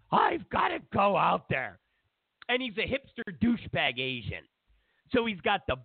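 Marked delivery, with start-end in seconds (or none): 0.1-1.8 hammed-up call to action; mock urgent shout. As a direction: shout it like a hero rushing out. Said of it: "He's like".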